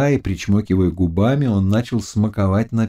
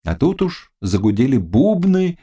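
ordinary delivery, nothing marked

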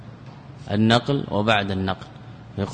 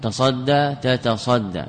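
slow demonstration; much slower than usual. Shown as a demonstration. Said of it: "تتصدى هذا الأصل".

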